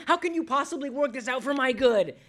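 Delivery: high, exasperated challenge to God; incredulous, doubting protest; cynical questioning. Acted. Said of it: "become cynical and disobey God and question".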